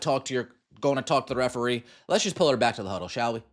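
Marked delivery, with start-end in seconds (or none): 2.1-3.4 mocking coach. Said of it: "Instead of stepping up for your player".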